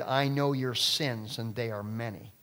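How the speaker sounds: slow, low, menacing demon voice, fading away; terrible demon voice. Retold or imitated. Preacher retelling how the demon addressed the pastor in a terrible voice. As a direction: drag it out like a demon naming sins. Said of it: "terrible voice came out of this woman".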